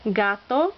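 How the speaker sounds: gato with GA stressed; stress on second-to-last syllable. Shown as a demonstration. Teacher demonstrating a Spanish rule, stress on second-to-last syllable. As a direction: lean on the first syllable of gato. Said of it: "accent on the second to last syllable".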